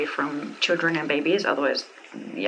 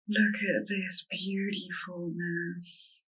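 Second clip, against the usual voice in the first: awed; 9 dB quieter, much slower than usual. Real, not acted.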